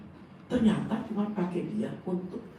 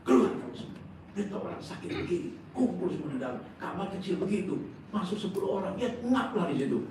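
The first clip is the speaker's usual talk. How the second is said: acted scolding; 5 semitones higher than usual. Ordering crowd out of sickroom.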